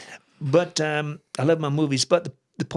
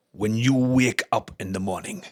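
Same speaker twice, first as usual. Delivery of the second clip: grave quoted warning; 4 semitones lower than usual. Retold or imitated. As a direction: let it sink toward a near-whisper, word by word. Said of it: "And the way he said it".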